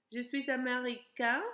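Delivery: "américain" ending on a nasal vowel, no N; masculine, nasal end. Shown as a demonstration.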